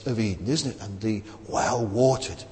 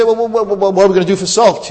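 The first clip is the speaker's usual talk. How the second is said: mock skeptic; 6 semitones higher, 8 dB louder, faster than usual. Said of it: "Now, you say".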